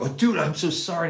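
high, exclaimed mock apology; retold apology. Co-star apologizing after knocking him over, imitated high-pitched apology.

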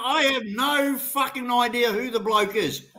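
heated, exasperated insistence; real irritated protest; angry denial. Real, not acted. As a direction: hammer home the denial, fed up. Angry denial after being told to drop it.

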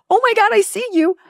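thrilled, high and loud; excited. Retold or imitated. Reunited with her dead brothers, overjoyed cry. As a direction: burst out in joyful recognition.

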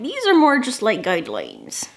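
hammed-up pirate accent; horrible pirate accent. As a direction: imitate a movie pirate's accent, badly. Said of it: "That was a horrible accent".

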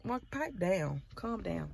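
quietly imitating someone telling her off; imitated daughter's look. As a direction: voice a child's unimpressed look, softly. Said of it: "Look at me like".

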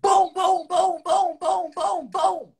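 loud, high booms mimicking kicks on a door; door kicking sounds. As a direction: pound out each boom like a kick. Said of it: "just kicking my door".

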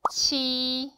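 치 with an aspirated ch; Chinese q sound. Shown as a demonstration. Teacher models the Chinese q for students. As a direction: breathe out on 치. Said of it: "그 치 발음입니다".

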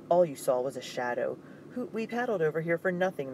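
mild grumbling complaint; complaining. Acted. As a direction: whine that the trip was wasted. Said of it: "Mikhail complained".

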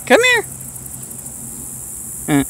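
high, loud shouted call. Real, not acted. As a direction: holler across the field. Calling donkey over.

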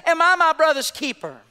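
high, projected mock nonchalance; nonchalant retort. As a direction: preach the offhand comeback out to the room. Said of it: "so nonchalantly, he just says".

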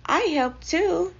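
high, loud, slow mouse protest; Timothy. A narrator's reading. Mouse claiming credit from teacup bath, insistent. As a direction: pipe up insistently, pitched high. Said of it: "said Timothy from a teacup bath".

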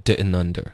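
"didn't under" as di'n-nunder; t dropped. Shown as a demonstration. Teacher confirming the learner's try, "didn't under" without t. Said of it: "这特的音对了".

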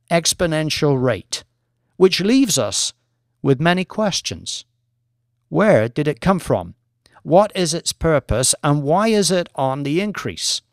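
a lightly voiced academic lecturer, measured and assured; professor presenting. Professor lecturing the traders, calm and assured. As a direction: present the research to the bored bankers.

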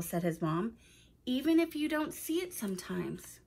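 put-on clear, expressive storytelling to young listeners; story narration. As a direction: read it aloud like a picture book for children. Reads a children's story aloud.

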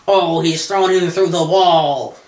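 slow, hyped commentator voice; mock wrestling announcer. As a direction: call it like a ringside announcer.

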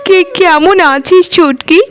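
overwhelmed with joy at seeing her little sister; stammering joyful surprise. Acted. Sister arrives unexpectedly.

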